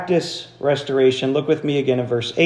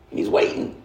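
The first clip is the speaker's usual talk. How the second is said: suspense whisper; 4 dB quieter than usual. Real, not acted. Suspense in hunting story.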